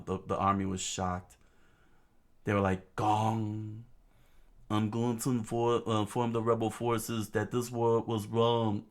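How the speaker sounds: pleading leader. Acted. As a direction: beg them to stop fighting. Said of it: "he screamed out".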